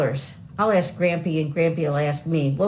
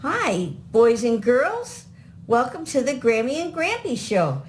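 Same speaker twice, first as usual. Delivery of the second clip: put-on kids show host; 3 semitones higher than usual. Grandparents host kids show intro.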